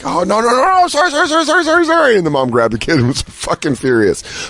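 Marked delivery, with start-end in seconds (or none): 0.0-2.2 much higher, frantic string of sorrys; panicked apology. Retold or imitated. Pranksters apologising to the scared kid and mom, high frantic sorrys. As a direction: backpedal in a rush, apologising. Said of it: "we were like".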